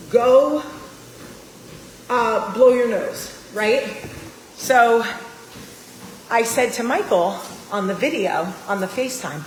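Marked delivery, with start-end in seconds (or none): 0.1-3.3 mock parent yell. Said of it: "I'm like".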